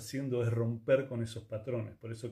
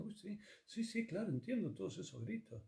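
high, soft mock agreement; sarcastic agreement; 8 semitones higher, 8 dB quieter than usual. Answering someone who shouts, with high soft sarcasm. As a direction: roll your eyes and sound high and soft.

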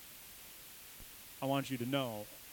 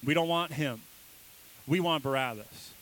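crowd refusing; 6 dB louder than usual. Retold or imitated. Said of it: "And they're like".

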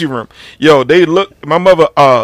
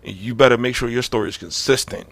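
low, much softer mother's threat; hushed warning; 5 semitones lower, 9 dB quieter than usual. Retold or imitated. Mother quietly warning her son before the interview, hushed. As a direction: warn him quietly but dead serious. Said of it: "was like".

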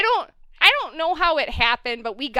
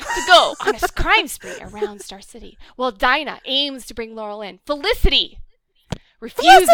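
lightly hammed trailer read; dramatic voice; 4 dB louder than usual. Shown as a demonstration. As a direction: build to a big dramatic beat. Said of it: "in my dramatic voice".

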